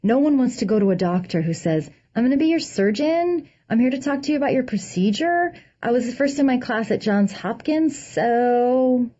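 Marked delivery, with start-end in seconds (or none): 2.1-9.1 unsure surgeon, every sentence rising higher like a question; apologetic uptalk. Pretend. Surgeon meeting a patient, timid and apologetic. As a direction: ask for permission with each line. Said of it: "instead of apologetic questions".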